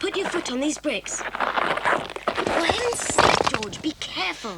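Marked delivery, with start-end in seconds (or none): 1.2-4.6 alarmed exclamation. Acted. Friend slips climbing in.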